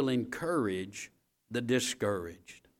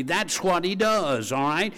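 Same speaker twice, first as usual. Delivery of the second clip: preaching shout; 6 semitones higher, 6 dB louder than usual. Acted. Preacher calling the refrain to the church, loud. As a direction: drive home the refrain.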